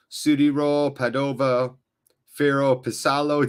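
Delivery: Italian names in a plain American accent; American reading of Italian. Shown as a demonstration. Streamer reading Italian team names in American accent. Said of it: "my American reading of Italian words".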